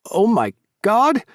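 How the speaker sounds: high, loud, slow gasp of joy; excited. Acted. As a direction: exclaim it in delight. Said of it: "I exclaim".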